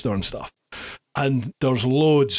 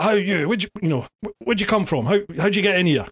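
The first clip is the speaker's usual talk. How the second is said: raised, higher challenge at two strangers; shouting at intruders; 5 semitones higher, faster than usual. Retold or imitated. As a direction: call out sharply to the men on the stairs. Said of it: "So I sort of shouted at them".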